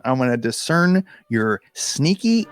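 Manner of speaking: hammed-up threat, pitch jumping on key words; mock trash talk. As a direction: taunt a villain in mock defiance. Trash-talks the story's villain.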